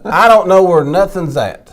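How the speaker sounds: laughing at her own confusion in the store. Real, not acted. Laughing about getting lost in stores.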